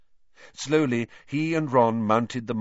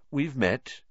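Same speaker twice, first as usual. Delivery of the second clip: curt; 4 semitones higher than usual. Acted. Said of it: "he said shortly".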